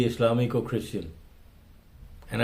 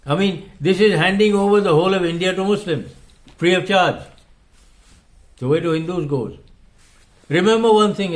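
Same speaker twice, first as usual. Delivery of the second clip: emotional; 5 semitones higher, 3 dB louder than usual. Real, not acted. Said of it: "I may sound a little emotional".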